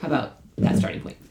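lightly spicy challenge; sassy, sarcastic. Acted. Speaker challenging relativists among friends, mildly sassy. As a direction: toss it out with understated sass. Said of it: "in a less sassy, sarcastic way".

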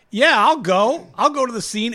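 eager reporter. Retold or imitated. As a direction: play a keen young street reporter. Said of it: "they're just like".

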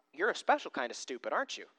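quiet, deadpan aside of disbelief; muted disbelief. Acted. Peter eyeing Jesus over the fishing order, muted disbelief.

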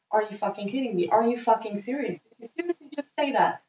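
indignant disbelief building to a high, loud outburst; outraged. Retold or imitated. Woman retelling how she exploded at her date, outraged. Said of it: "I was so mad at him".

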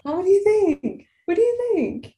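high-pitched talking-to-the-dog voice; pet talk. Real, not acted.

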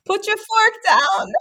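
put-on high squealing baby-talk aunt; auntie voice. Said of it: "say that in an auntie voice".

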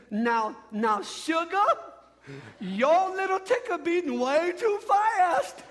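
high, drawn-out Southern belle lilt; old-school Southern belle accent. Acted. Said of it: "like that old little Southern, you know, little, uh, accent".

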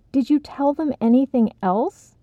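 sharp insistent question; demanding. Acted. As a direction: press her hard. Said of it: "Daniel demanded".

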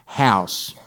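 slow, quiet, word by word; hushed, very drawn-out pronouncement; God's reminder. Acted. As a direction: space out each word softly and deliberately. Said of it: "He reminds him".

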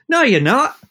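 imitating the stunned fan; incredulous denial. Fan denies caller is Daniel.

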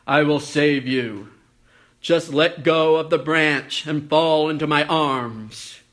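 a light booming heavenly voice; God's voice. Acted. God's voice answers the man.

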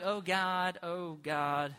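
slow, drawn-out mock invocation; put-on prayer voice. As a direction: draw out the words as a put-on pray-er. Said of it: "My prayer voice".

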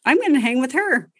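imitating a toddler mad at mom. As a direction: voice the sulky child. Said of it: "He's like".

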